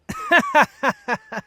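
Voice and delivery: a burst of derisive laughter to hide the blush; mocking laugh. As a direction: laugh the idea right off. Scoffing at idea of crush.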